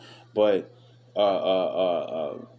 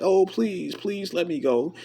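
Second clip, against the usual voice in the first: high, squeaky begging voice; mock pleading to be let go; pleading beast; 9 semitones higher than usual. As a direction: beg like a cornered creature.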